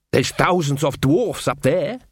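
slow, coaxing dwarf. Acted. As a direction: talk her round slowly as the dwarf. Casanunda pleads for the mountains.

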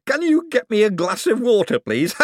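high, giddy, laughing request. Acted. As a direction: ask through the giggles. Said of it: "grew very quickly into a laugh".

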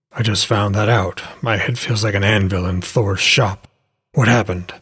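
lightly voiced wounded man, pitched a little down; low-key character voice for an injured man; injured Hodor, wryly groaning. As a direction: play the hurt hero with understated wryness.

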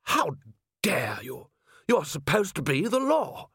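high-pitched, indignant protest; affronted, high-voiced outburst; indignant courage. A narrator's reading. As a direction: muster the nerve to object, voice rising high. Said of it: "found enough courage to say".

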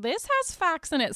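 light mock Scottish accent on a retort. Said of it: "Sorry, I won't do a Scottish accent".

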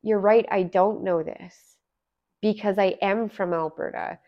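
a plain, unhurried concession; very honest. Retold or imitated. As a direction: own up to it honestly, taking your time. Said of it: "very honestly".

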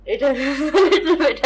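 words breaking into laughter; trying not to laugh. Real, not acted. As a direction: laugh escaping mid-sentence. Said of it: "I'm trying not to laugh right now".

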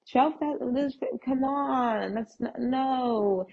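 high-pitched, sputtering disbelief; incredulous protest. Retold or imitated. Balking at a twelve thousand dollar price, incredulous.

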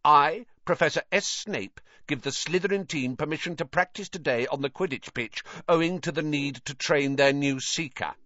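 lightly put-on formal reading voice; reading a note aloud. A narrator's reading. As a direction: read out the note formally, as Flint. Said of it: "a specially signed note here from Professor Snape".

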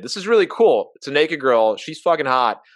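high, loud giddy thrill; excited. Retold or imitated. Fourteen-year-old thrilled about the naked girl, giddy excited. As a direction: let the excitement burst out. Nervous excited teen inner thought.

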